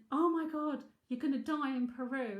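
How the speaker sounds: mock panic from the daughter; imitating daughter. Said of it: "And my daughter went".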